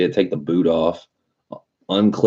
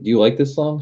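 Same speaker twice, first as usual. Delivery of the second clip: put-on higher, sing-song kid-talk; talking to a child; 9 semitones higher, faster than usual. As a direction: ask it sweetly like to a toddler. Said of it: "was like".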